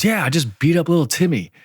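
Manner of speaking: put-on high kid's voice; imitated son. Son telling dad about little Timmy, high imitated voice. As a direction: play the boy owning up, pitched high.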